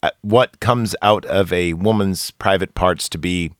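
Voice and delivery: low, formal mock address; mock formal apology. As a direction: deliver a solemn fake public apology. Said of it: "let me apologize".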